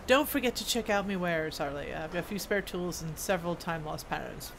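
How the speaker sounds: lightly voiced dwarf smith, matter-of-fact; a hint of a kindly craftsman handing over work; dwarf smith character.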